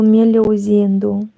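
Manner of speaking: meu leozinho with a falling Brazilian lilt; Brazilian Portuguese accent. Retold or imitated. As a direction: imitate a Brazilian saying "meu leozinho" kindly. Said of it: "you can see that I can imitate some accents".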